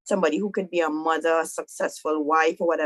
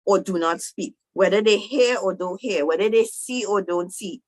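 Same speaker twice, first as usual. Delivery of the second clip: a little mad; 3 semitones higher than usual. Retold or imitated. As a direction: play God mildly scolding Moses. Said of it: "God get a little mad".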